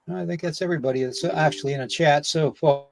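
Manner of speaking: slightly winded while talking; short of breath. Real, not acted. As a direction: talk with a little breath missing. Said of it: "a little short of breath".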